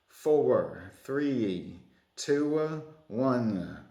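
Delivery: "Four", "three", "two", "one" each stretched into two syllables, Australian-style; badly faked Australian countdown, drawing each number into two beats; mock Australian accent. Host counting down Australian seconds for quiz viewers, mock Australian accent. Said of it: "two syllables. If it's only one syllable, you stretch it into two".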